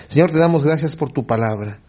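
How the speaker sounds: subdued congregational prayer; closing prayer. Real, not acted. Closing prayer after "Oremos.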